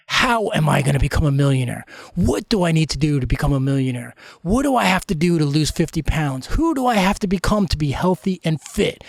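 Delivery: emphatic motivational self-questioning, short of shouting; powerful, forceful questioning. Shown as a demonstration. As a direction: demonstrate asking with drive and emotion. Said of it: "asked it with the same power, the same force".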